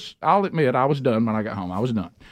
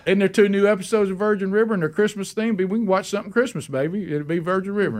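higher-pitched eager suggestion; excited; 5 semitones higher than usual. Retold or imitated. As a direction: retell an excited pitch to a partner. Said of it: "Did you see how excited I was?".

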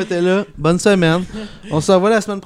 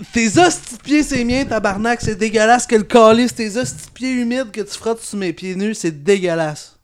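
disgusted rant; 6 semitones higher than usual. Real, not acted. Disgusted rant at partner's feet.

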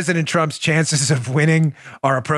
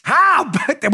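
lightly mock sports announcer, pitched high; high, playful announcer exclamation; baseball show catchphrase; 10 semitones higher than usual. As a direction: call it out like a baseball highlight host. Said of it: "This week in baseball".

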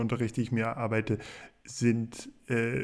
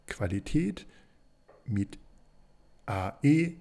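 spelling out. Real, not acted. Spells out web address for listeners.

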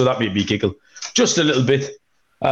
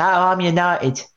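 slow, higher Essex bloke voice; Essex accent; 5 semitones higher than usual. Retold or imitated. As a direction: imitate a Beckham-style Essex accent. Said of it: "Do you like this impression?".

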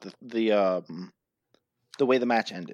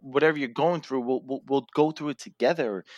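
pleading brother; 3 semitones higher, faster than usual. Retold or imitated. Brother pleading with brother in the ring, mild mock plea. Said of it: "And he's pleading with him".

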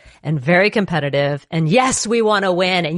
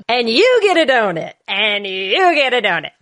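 mock giveaway; 2 semitones higher than usual. Mock game-show giveaway.

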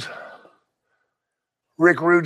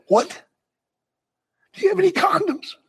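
retold outrage; 7 semitones higher than usual. Woken at 4am, yelling at Rick.

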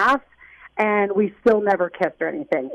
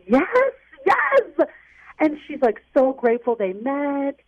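upset; 5 semitones higher than usual. Real, not acted. Caller reveals other girl.

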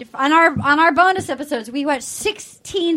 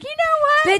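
mock defiant; 13 semitones higher, slower than usual. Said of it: "And then I was like".

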